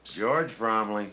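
very slow, dragged-out name; stubborn refusal. Acted. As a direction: drag it out to stonewall. Suspect repeats name, refusing answers.

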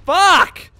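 sharp high yelled curse; angry shout. Real, not acted. Gamer hit by the enemy, angry shout. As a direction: explode on one word. Frustrated outburst.

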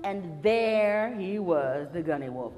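slow, loud, drawn-out build-up of the monster; dramatic suspense. A narrator's reading. Storyteller to children, revealing the wolf dramatically. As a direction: savor each big huge part.

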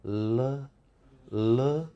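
a long, soft "르" with air escaping past both sides of the tongue; flowing liquid sound. Shown as a demonstration. Teacher showing how air flows in "르", softly sustained. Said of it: "르 이럴 때 혀 양옆으로 공기가 흘러요".

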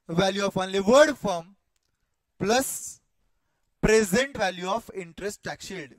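slow, emphatic formula dictation; dictating. Real, not acted. Teacher has students write the formula along, slow dictation. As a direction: dictate in measured chunks with pauses between.

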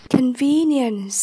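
"Convenience" stressed on VE; stress on second syllable. Shown as a demonstration. Teacher modelling vocabulary for learners, "Convenience" stressed on VE. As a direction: lean on VE in "Convenience". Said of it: "nhấn âm hai".

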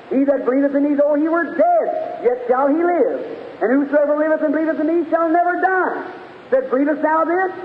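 preaching. Acted. Preacher retelling Jesus speaking to Martha, preaching. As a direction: preach the verse out to the congregation. Preaches a retold Gospel scene.

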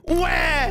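short mock wail; cartoon crying noise; pretend baby cry. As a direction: blurt a fake baby "wah". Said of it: "I'm gonna cry again".

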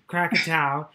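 Krakatau said slowly, ending in "ow"; corrected pronunciation. Shown as a demonstration. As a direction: carefully land Krakatau on a "tow" like cow. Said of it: "I'll stop doing that then".

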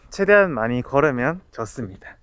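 muffled behind mask; through a face mask. Real, not acted. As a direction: mouth covered by cloth. Seen 4: Black mask covers his nose and mouth in every labelled frame.

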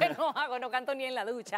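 laughing while talking. Real, not acted. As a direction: laugh through the words. Joking she cannot sing.

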